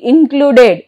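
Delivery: "Included" ending in a full "ded"; pronounced E. Shown as a demonstration. Teacher shows E after D, "Included" with full E. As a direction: sound the last E in "Included", in-clu-ded. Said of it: "but here it is pronounced".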